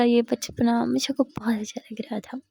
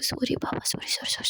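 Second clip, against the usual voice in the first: सॉरी whispered softly, breathy and tender; whispered sorry; 6 dB quieter than usual. Acted. Misha kisses Jia's cheeks and apologises: soft whispered sorry. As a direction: breathe sorry बाबा gently, barely voiced.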